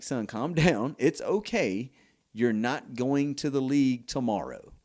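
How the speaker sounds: lightly voiced mom hollering from the stands; retold mom's yell. Mother to her frustrated son at the game, mild mock yell. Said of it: "his mama yell out".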